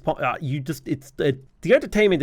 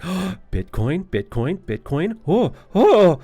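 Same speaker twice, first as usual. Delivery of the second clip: excited crypto bot; 4 dB louder than usual. Retold or imitated. Crypto scam bot spotting Bitcoin in video, frantic hype. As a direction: play a scam bot that just smelled the word Bitcoin. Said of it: "bots ... they're like".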